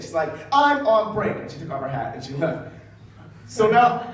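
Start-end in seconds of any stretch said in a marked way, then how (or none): 0.5-1.4 mock fuming usher. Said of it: "she is fuming".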